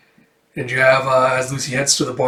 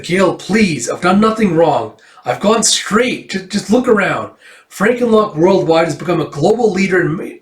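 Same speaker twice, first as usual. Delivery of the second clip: higher-pitched pleading reformed villain; a lightly voiced desperate ex-villain, pitched up; 5 semitones higher, 3 dB louder than usual. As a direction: beg the hero to believe you've changed.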